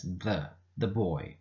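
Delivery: THE said "thuh", with a schwa; weak THE. Shown as a demonstration. Teacher showing THE before a consonant, weak "thuh". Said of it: "you can pronounce it as".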